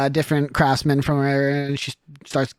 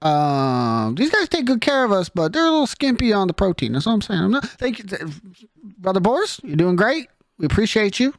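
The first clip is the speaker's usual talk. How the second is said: a hint of a friendly, slightly raised church helper; chatty churchgoer; 3 semitones higher than usual. Church helper thanking Brother Boris, cheerful and chatty. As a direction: warmly thank the brother while angling for protein.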